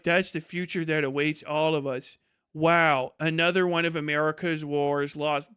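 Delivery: low, lightly mock-solemn tone; mocked film reading. Soldiers seeing Vietnam vet, low mock-grave musing. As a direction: intone it gravely, with a touch of parody. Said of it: "they're like".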